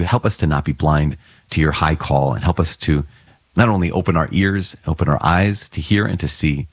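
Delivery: steady, earnest prayer voice. Acted. Priest leading the congregation in prayer, reverent. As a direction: pray it reverently over the people. Opening prayer before the homily.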